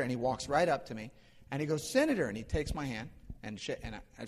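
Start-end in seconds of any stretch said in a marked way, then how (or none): 1.9-2.3 high, falling hail to a passerby; calling out. Retold or imitated. Stranger hails the preacher as senator on the street, calling out high. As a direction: hail someone you pretend to recognize, pitched way up.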